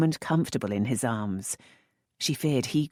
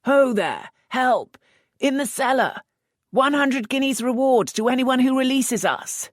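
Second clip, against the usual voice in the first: high, loud shout for help; calling for help; 12 semitones higher, 6 dB louder than usual. Acted. Lisette shouting for rescue, high and loud. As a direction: yell through the door. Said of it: "Elf screamed".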